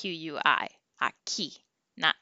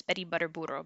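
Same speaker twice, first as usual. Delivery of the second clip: quietly repeating "Betty Butter Burro", tongue in rolling position; soft drill; 9 dB quieter, much faster than usual. Shown as a demonstration. Teacher quietly drilling a tongue twister for learners. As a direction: murmur it softly as practice. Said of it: "Say it faster and faster".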